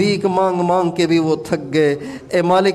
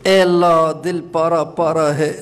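tearful supplication. Real, not acted. A praying man cries to Allah with his grieving heart, sobbing. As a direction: voice breaking into real sobs. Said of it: "दिल बड़ा गमगीन और उदास है".

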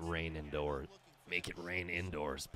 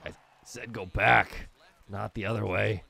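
frustrated; 3 semitones higher, 9 dB louder than usual. Real, not acted. Runner ignoring his command.

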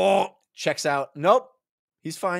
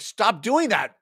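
mock stern dad; 9 semitones higher, slower than usual. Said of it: "he's like".

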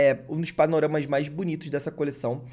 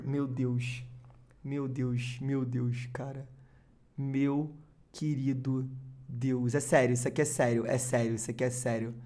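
breathless, quiet, stunned oh my God; struggling to breathe in shock; hyperventilating; 3 semitones lower, 5 dB quieter than usual. Real, not acted. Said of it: "eu não tô conseguindo respirar".

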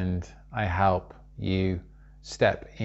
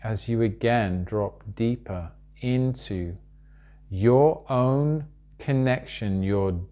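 measured meditation guide with long pauses; unhurried spoken guidance, leaving room to breathe; guided meditation. Real, not acted.

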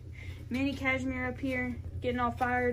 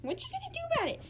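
a higher, playful whispered dare; mock whisper taunt; 13 semitones higher, 4 dB quieter, much faster than usual. Real, not acted. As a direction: hiss the dare softly at the kitten. Taunting kitten, whispered take.

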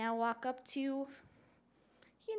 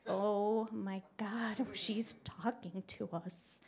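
slow, drawn-out mock dread; imitating wary onlookers, slowly; mock dismay; slower than usual. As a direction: stretch it out, dropping toward a whisper. Imitates people wary of her.

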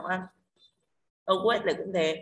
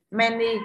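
"Many" with MA hit louder; stress on first syllable; 3 semitones higher, 5 dB louder than usual. Shown as a demonstration. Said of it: "Âm tiết thứ nhất nhận trọng âm". (nhấn âm tiết đầu "Many")

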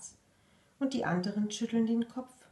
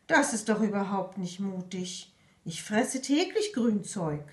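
fake disappointment. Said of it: "Die Schnecke tut enttäuscht".

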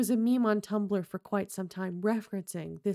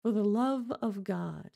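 cold mocking echo. Montresor coldly echoing Fortunato's plea, level and detached. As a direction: echo his plea back flatly. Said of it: "I said".

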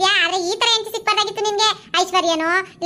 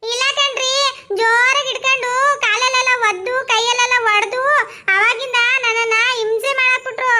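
whiny complaint; 3 semitones higher, slower than usual. Acted. Wife whines to husband.

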